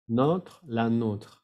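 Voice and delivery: slow "notre" open O, "la nôtre" closed O; short open vowel in "notre", long rounded one in "nôtre"; vowel contrast demo. Shown as a demonstration. Teacher repeats the difference, open "notre" against closed "la nôtre". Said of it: "la diferencia entre notre".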